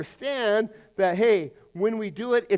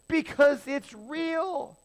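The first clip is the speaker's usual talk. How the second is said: slow emphatic answer; 7 semitones higher, much slower than usual. Acted. Answering his own rhetorical question.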